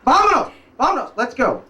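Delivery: a hint of a soldier ordering them off; commanding soldier. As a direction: bark it out like a soldier. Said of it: "All of a sudden they go".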